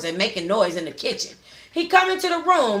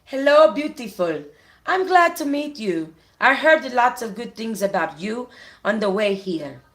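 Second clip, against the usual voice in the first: put-on Latin accent. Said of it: "She spoke with a thick, heavy Latin accent".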